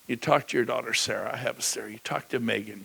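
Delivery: ordinary talk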